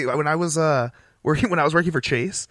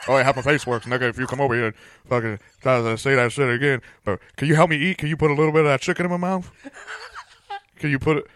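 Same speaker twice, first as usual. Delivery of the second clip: mock stroke voice. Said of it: "Was he having a permanent stroke?".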